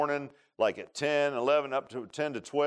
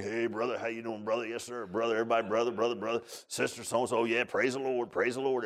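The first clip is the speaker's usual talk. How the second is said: mock pious talk; 4 semitones lower than usual. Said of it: "I was acting all pious and everything".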